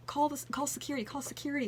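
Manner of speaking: high, hammed-up panicked call; mock panic. Donald panicking and calling his photographer, mock alarm. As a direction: pretend to panic and call for help. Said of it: "he's, like, panicking".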